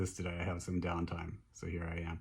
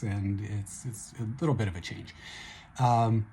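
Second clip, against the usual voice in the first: slightly hoarse voice; 3 semitones higher, 8 dB louder than usual. Real, not acted. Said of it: "my voice is a little hoarse".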